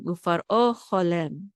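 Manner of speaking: ufar o cholem with weight on o and lem; stress on final syllables. Shown as a demonstration. Teacher showing where the accent falls, final stress. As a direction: lean on the end of each word in ufar o cholem. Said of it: "the accent is on lem".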